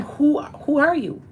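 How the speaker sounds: put-on high and slow, asking a child who they were; sing-song demo of asking a child; coaxing question. Shown as a demonstration. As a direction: gently draw it out of a kid. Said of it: "Do you see how that goes".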